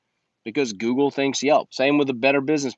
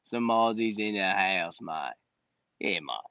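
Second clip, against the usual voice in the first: a weak attempt at an Australian accent, softer and lower; bad Australian accent; 4 semitones lower, 6 dB quieter than usual. Greeting Australian viewers in a mock Australian accent. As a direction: mumble it in a clumsy Australian accent. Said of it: "I gotta work on my Aussie accent".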